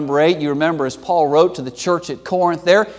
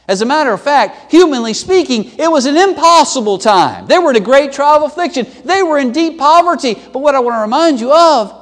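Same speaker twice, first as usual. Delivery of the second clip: impassioned preaching; 7 semitones higher, 5 dB louder than usual. Acted. Preacher at full force.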